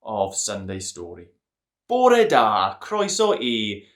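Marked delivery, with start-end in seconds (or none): 1.9-3.9 Welsh greeting. Shown as a demonstration. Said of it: "I think I got away with that".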